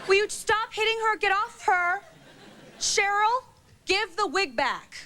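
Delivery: high, helpless pleading host; flustered Ricki Lake. Retold or imitated. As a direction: try weakly to break up the fight. Ricki Lake trying to stop fight.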